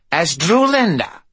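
possessed voice over speakers; Constance. Acted. Drulinda voice.

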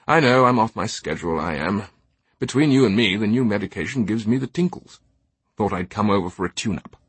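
lightly voiced English eccentric, confiding; chatty eccentric gentleman. Teabing confides about his medication to the officers, breezy. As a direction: share it breezily, between you and me.

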